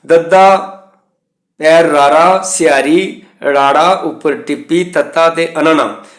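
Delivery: slow, careful letter-by-letter spelling; name each letter slowly, like dictation. Shown as a demonstration. Teacher spells the word for students, slow and deliberate. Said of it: "ਇਹ ਲਫ਼ਜ਼ ਲਿਖੇ ਨੇ".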